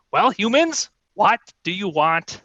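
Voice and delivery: a hint of an imperious kobold ruler; lightly voiced haughty queen. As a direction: demand it from the throne. Queen addresses adventurers.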